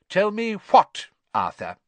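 high, loud, pointed question; suspicious demand. A narrator's reading. Wife turning back to her husband, demanding suspiciously. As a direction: press your husband for the answer. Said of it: "repeated in a dangerous sort of voice".

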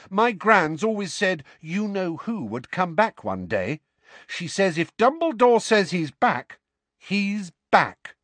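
high, steady earnest voice; earnest Neville. A narrator's reading. Neville backing Harry to Seamus, high and earnest.

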